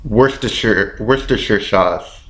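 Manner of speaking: "Worcestershire" with a reduced "sher" ending; practised pronunciation. Shown as a demonstration. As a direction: repeat "Worcestershire" as WOOS-tuh-sher. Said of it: "One more time".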